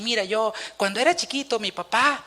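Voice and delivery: un toque de cuentacuentos, más bajo; contando cuentitos. Pretend. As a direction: imita ligeramente a un predicador que cuenta anécdotas. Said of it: "les contaba cositas y cuentitos". (tono de cuentito, imitado a medias)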